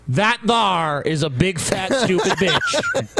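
high, slow redneck drawl; hick voice. Retold or imitated. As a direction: drawl it like a hillbilly. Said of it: "T J called it, guys".

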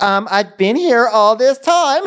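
high, slowed, put-on whine; mock pouty twink. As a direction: pout it out, feeling ignored. Mocking the twink's pouty reply.

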